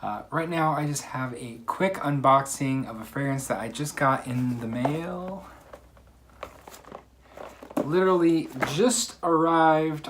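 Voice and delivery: breathless after running upstairs; catching breath between words. Real, not acted. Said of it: "out of breath from running downstairs".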